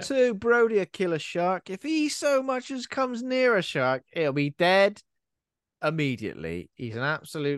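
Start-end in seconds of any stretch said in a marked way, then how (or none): 0.3-6.7 mock trailer voice.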